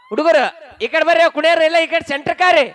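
rallying call to the crowd. Real, not acted. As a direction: summon the dancers over. MC calling boys over to dance.

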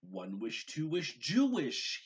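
building to a high loud spell; commanded. A narrator's reading. Gabriel commanding his spell in the living room, building loud incantation. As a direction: climb up to a booming magic word. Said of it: "he commanded".

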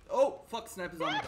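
loud, high burst of alarm; startled curse. Real, not acted. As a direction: blurt it out in sudden alarm. Spotted by a sniper in game.

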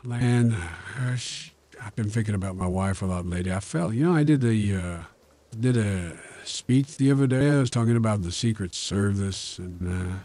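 lightly voiced rambling old president; halting presidential impression, full of hesitations; Joe Biden. President tells viewers about his fall, rambling impersonation. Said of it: "It sounds a little bit like Bush".

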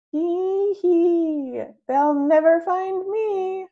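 high gleeful giggling; giggle. A narrator's reading. Hiding in the closet, giggling to himself. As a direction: giggle it, pleased to be hidden. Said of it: "I giggle".

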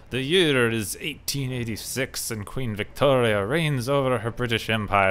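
game intro read in a hint of a Russian accent. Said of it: "I don't know why I went Russian there".

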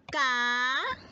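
"ca-sa" split into two slow beats, ca then sa; syllable by syllable. Shown as a demonstration. Teacher sounding out "ca-sa" for little pupils, syllable by syllable. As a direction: clap out "ca-sa" one syllable at a time. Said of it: "Por ejemplo".

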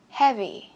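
"Heavy" with HEA hit, falling after; front-stressed model "Heavy"; stress on first syllable. Shown as a demonstration. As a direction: punch the start of "Heavy". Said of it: "Chữ âm một".

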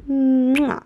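loud smacking air kiss; kiss sound. Real, not acted. Blowing her rabbit a kiss. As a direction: blow a big kiss to your pet. Kissing her pet goodbye.

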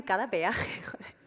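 unvoiced murmured aside; whispered aside. Stand-up comic whispering a quick aside to the crowd. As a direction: drop to a whisper for the punch.

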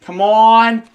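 put-on Scottish accent. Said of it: "It's the Scottish hole now".

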